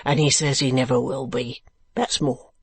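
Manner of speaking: lightly gruff working man. Acted. Man below wall answering old gentleman, gruff. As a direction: add it gruffly. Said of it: "answered the gruff voice".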